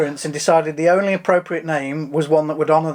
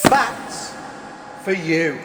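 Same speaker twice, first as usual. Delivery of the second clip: ridiculous voice; 3 dB quieter, much slower than usual. Acted. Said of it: "the ridiculous voice".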